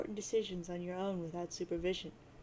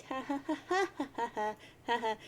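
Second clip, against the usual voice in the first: long laugh; 4 semitones higher than usual. Acted. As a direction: laugh on and on at him. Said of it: "And she says".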